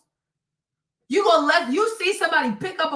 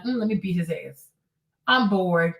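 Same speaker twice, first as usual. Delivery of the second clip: mock bored Chris; 6 semitones lower than usual. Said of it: "So Chris just came and like".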